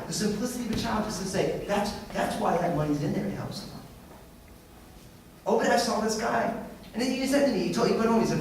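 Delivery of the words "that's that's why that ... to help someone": a bit softer, fading to a near whisper; soft quote. Retold or imitated. Preacher quoting a child's wisdom again, softly. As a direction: let it trail off tenderly. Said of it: "out of the mouth of a child".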